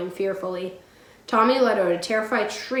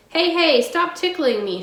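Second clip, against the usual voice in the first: high, loud mock shriek of delight; 7 semitones higher, 5 dB louder than usual. A narrator's reading. Pippi shrieking as the bull tickles her. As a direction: squeal it out like being tickled. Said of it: "shrieked Pippi".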